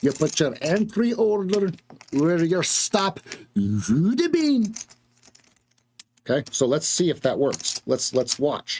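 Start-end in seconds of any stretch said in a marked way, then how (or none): 0.0-4.7 put-on Scottish accent, pitched higher. Going over a two-minute chart, saying a rule: imitating a Scottish man. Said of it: "I'm gonna say it like the Scottishman".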